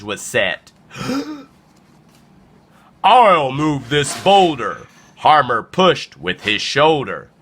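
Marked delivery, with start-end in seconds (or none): 3.0-4.9 tag. Acted. Bully llama boasts.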